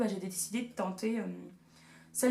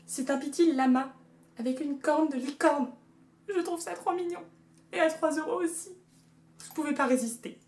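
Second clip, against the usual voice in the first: cutesy high voice; 5 semitones higher than usual. Acted. Gushing over llama unicorn mug.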